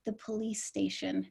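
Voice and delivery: soft, slow weak voice; barely there, faint and slow. Retold or imitated. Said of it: "in a very weak voice".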